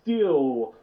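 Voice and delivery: laughing. Acted. Joke about physical labor.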